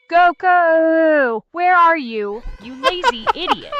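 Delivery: loud scolding cartoon-wife yell, breaking into a laugh; hammed-up angry housewife calling her husband; Chi-Chi yelling for Goku. AI playing Chi-Chi yelling for Goku, loud mock scolding. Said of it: "Yelling for Goku".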